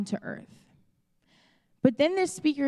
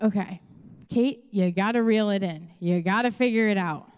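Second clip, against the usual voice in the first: self pep talk; 3 semitones lower than usual. Retold or imitated. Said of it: "I talk to myself a lot".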